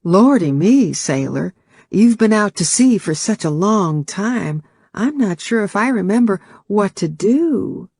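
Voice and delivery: hammed-up Southern belle accent, playful; bad Southern accent. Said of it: "said in a bad Southern accent".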